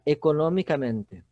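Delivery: economicamente with a strong NO syllable; stress on NO. Shown as a demonstration. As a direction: punch the "no" in economicamente. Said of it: "A quinta sílaba tônica é o no". ("economicamente" com a tônica forte no "no")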